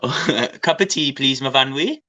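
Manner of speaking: a lightly hammed-up Welsh accent. Shown as a demonstration. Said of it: "Do your Welsh again".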